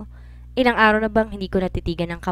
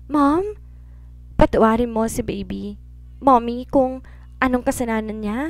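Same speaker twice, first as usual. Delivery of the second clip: put-on child pleading; 3 semitones higher than usual.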